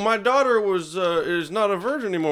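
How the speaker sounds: high, put-on accusing voice; mock accuser. Mocking a father blaming an innocent man, in a high accusing voice. Mimicking a historical false accuser.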